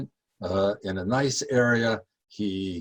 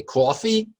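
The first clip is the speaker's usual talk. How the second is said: mock Southern accent; 12 semitones higher, 3 dB louder than usual. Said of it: "he's gonna say".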